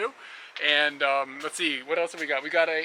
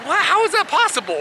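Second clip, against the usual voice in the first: high incredulous what; mock disbelief; 13 semitones higher, 5 dB louder than usual. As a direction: act baffled and amazed. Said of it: "And I was like".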